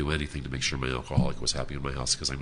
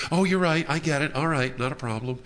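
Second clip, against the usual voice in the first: mock-cheerful, much higher; sarcastic agreement; 10 semitones higher than usual. Answering her husband with sarcastic mock agreement. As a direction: play along with bitter sarcasm.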